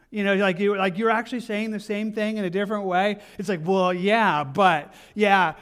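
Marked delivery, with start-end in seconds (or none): 3.6-5.5 grudging yeah-but. Retold or imitated. Acted stubborn reply in dispute.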